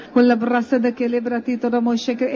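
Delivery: speaking in tongues. Shown as a demonstration. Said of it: "A Szent Szellem adja most a kiejtést".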